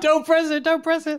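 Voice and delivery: giggling, high-pitched repeat of the warning; laughing mock warning. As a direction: tease the line while laughing. Host echoes warning laughing.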